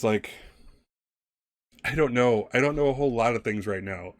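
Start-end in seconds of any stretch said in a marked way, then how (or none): 1.8-4.1 lightly voiced frightened girl, slightly raised; mildly overwhelmed, pleading to get away; a hint of a distressed little girl; confused scared girl.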